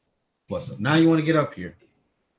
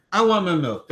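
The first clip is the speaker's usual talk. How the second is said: voicing the toddler; 5 semitones higher than usual. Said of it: "That's why I'm screaming like that".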